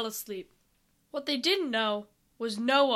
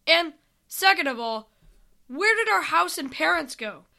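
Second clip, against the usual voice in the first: higher, slightly louder questioning; mild demanding disbelief; 4 semitones higher, 4 dB louder than usual. Acted. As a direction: press for an answer, baffled. Sam demands answers about missing home.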